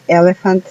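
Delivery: elephant, stressing the sounded E's; English word elephant. Shown as a demonstration. ("elephant" marcando las E)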